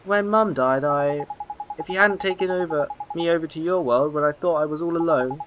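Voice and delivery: lightly voiced earnest young lad; heartfelt boy hero. Boy explaining his loneliness to the fairy, heartfelt. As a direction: make a sincere boyish appeal, mildly sad.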